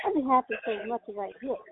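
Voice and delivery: strained voice turning a knob; talking through effort; effort grunt. Real, not acted. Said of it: "I am sorry to be grunting".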